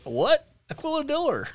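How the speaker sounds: high, loud mock bafflement; incredulous dad. Son imitating Dad corrected on his order, incredulous. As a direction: imitate Dad blurting it back, pitch shooting up. Dad's baffled reply, retold.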